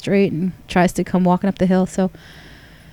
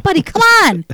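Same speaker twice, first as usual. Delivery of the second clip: high pleading call, a bit louder; pleading with the dog; 11 semitones higher, 4 dB louder than usual. Retold or imitated. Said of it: "I'm like".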